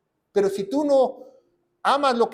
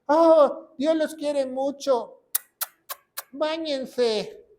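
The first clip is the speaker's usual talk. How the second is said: drawn-out, sweetly ironic reassurance; mock-sweet preaching; 3 semitones higher, much slower than usual. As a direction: coo it slowly in mockery of a kindly preacher. Mocks a soft gospel to Pharisees.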